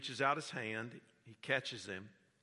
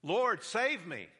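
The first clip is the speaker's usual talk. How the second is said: slow, higher, louder plea; mild cry for help; 8 semitones higher, 7 dB louder, slower than usual. Retold or imitated. Peter sinking, crying to the Lord for help. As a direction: Peter calling out while sinking. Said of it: "he cries out".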